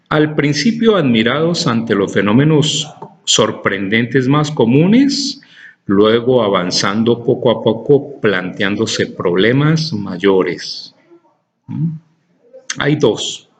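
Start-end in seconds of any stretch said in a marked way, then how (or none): 0.1-11.0 deliberate text reading, slowing at phrase ends; reading aloud to class. Acted. Teacher reading the paragraph for key words, deliberate reading.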